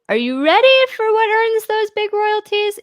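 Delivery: big teasing announcer voice; hyped announcer. Pretend. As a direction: build it up like a game show host. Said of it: "announcer build-up, big reveal".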